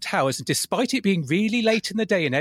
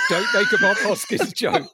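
urgent inner warning; 3 semitones higher, 3 dB louder than usual. Retold or imitated. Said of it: "I'm sat here going".

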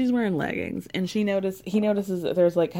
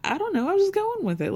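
laughing; 12 semitones higher, faster than usual. Retold or imitated. Voicing Woody amused.

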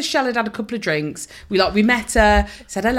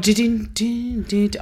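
hummed organ. Retold or imitated. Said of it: "And he was like".

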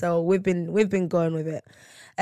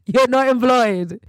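slow, louder mock verdict; teasing jab; 5 semitones higher, 7 dB louder than usual. Real, not acted. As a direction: lay it down slowly, teasing. Teasing partner about freelance.

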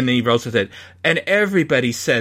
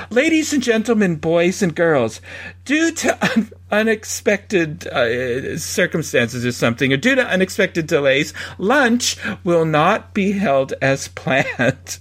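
imitating announcer voice; 3 semitones higher than usual. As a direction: announce a lunch delay like a park PA. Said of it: "she makes her announcement about making lunch".

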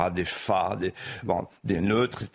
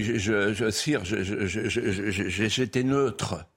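lightly retold nervous stammering, trips over je; hesitant stammer; 3 semitones lower, slower than usual. Guest retelling an accused man's halting answer to the king, mild stammer. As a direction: stutter out the excuse, halting and unsure. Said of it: "Et là, il hésite".

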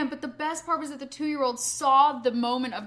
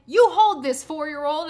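firm dad command; 3 semitones higher, 10 dB louder than usual. Retold or imitated. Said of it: "his dad is like".

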